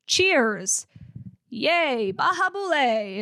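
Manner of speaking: mildly cheering, drawn-out toast; happy expression. Retold or imitated. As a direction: say it like a cheerful catchphrase. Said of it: "a very happy expression".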